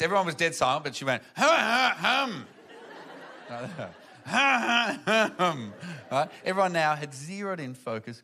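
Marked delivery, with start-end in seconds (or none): 1.4-3.5 put-on drunken throat-clearing hum. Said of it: "she went like this". 4.3-5.7 put-on drunken hum. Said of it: "she went like this".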